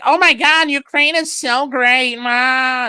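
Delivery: high, loud gushing mock fanboy voice. Streamer mocking pro-Ukraine Twitter fans, high gushing voice. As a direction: gush like a starstruck fan. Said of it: "where they're like".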